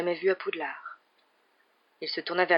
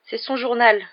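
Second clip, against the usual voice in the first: put-on higher, louder tearful girl; sanglotant; 6 semitones higher, 7 dB louder than usual. A narrator's reading. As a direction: plead as if on the verge of sobs, acted. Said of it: "sanglota Ginny". (voix de fillette en sanglots, jouée)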